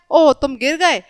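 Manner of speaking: understated dismay on ओह; mild sorrow. Shown as a demonstration. Teacher acting out sadness for children, mildly sorrowful. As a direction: say it with a touch of concern. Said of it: "ये दुख प्रकट कर रहा है".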